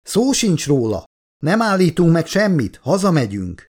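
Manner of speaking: high, emphatic, brooking no argument; categorical refusal. A narrator's reading. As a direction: rule it out firmly. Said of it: "kategórikusan ... ellentmondást nem tűrő hangon". (ellentmondást nem tűrő, határozott hang)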